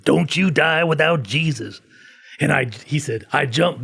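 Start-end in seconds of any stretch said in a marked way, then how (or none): 0.0-1.8 slow, emphatic mock holler; retold old-man scream. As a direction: imitate an old man's warning cry, drawn out. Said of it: "this old man's screaming this in Safeway".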